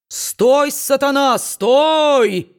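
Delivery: high, loud bellow after a fleeing man; preacher's yell. A narrator's reading. Preacher yelling after Kit to stop him, high and loud. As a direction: roar it out like a fire-and-brimstone preacher. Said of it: "вдруг завопил проповедник".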